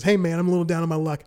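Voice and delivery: jovial plea. Retold or imitated. Guy outside the store asks for help, cheery and quick. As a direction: rattle it off brightly. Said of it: "the most jovial person".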